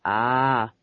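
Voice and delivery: hiccup after the words. Acted. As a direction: hiccup at the end. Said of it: "and hiccuped".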